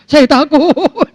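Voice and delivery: wailing, drawn-out "wow" in mock fear; hammed-up retold panic, words stretched out; mock frightened cry. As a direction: imitate a scared traveller, slow and quavering. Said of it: "dia katakan".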